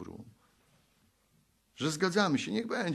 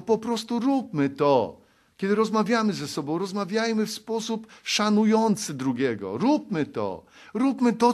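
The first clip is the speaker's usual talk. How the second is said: higher, louder exhortation; full-force preaching; 7 semitones higher, 6 dB louder than usual. Acted. Preacher urging the congregation to do good, loud and fervent. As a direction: drive the call home, loud and raised.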